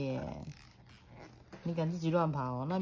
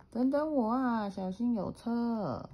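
put-on high call after a running child; dad calling out; 7 semitones higher, slower than usual. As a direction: call out to him, worried. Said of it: "爸爸在后面喊".

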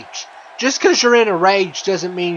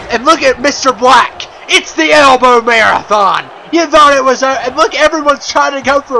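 raised, louder call of the action; excited play-by-play; 4 semitones higher, 4 dB louder than usual. Real, not acted. Commentator calling the match, excited and loud. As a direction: hype up the elbow spot for the crowd.

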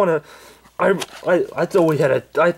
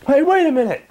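Angry Grandpa voice; 13 semitones higher, 3 dB louder than usual. Acted.

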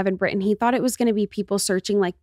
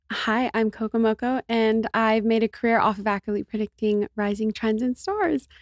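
lightly done sultry TikTok voice; a hint of breathy allure; alluring sexy voice. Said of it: "very alluring, sexy voice".

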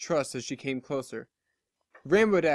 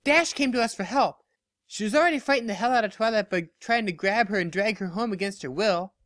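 higher, insistent correction; protective friend; 6 semitones higher than usual. Acted. Barry correcting Applejack about Dash, insistently. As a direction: stand up for her firmly.

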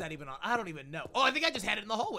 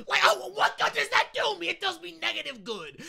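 mocking voice; 7 semitones higher, 4 dB louder than usual. Mocking the bad spot.

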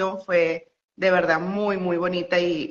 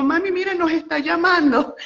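high, breathless star-struck call; nervous excitement; 7 semitones higher, 3 dB louder than usual. Retold or imitated. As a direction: squeal it to mom, giddy. He waves them over, nervous.

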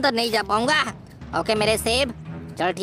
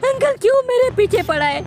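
mock whine; 10 semitones higher, 4 dB louder than usual. Whining at uncle.

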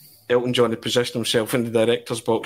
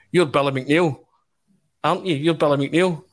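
higher, excited star-struck fan; imitating a thrilled Elton, pitched up; 6 semitones higher than usual. Elton John voiced in story.

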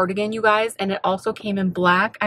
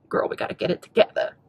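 whispered self-talk; 3 semitones lower, 4 dB quieter than usual. Real, not acted. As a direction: hush it like a note to self. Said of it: "self-talk aside".

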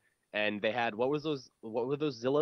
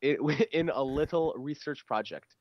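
announcer voice; 7 dB louder than usual. Pretend. Reading game signs as announcer.

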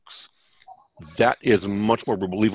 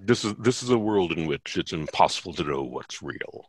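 lightly voiced trailer announcer; movie trailer announcer; 3 semitones lower, 4 dB quieter than usual. Shown as a demonstration. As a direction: narrate it like a dramatic trailer.

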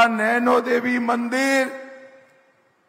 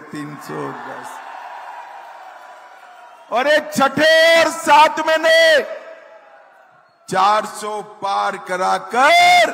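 rally the crowd from the stage; booming political rally speech. Acted.

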